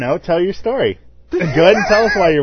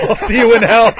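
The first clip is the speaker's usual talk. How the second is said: laughing shout; 8 semitones higher, 8 dB louder than usual. Pretend. Quote shouted while laughing.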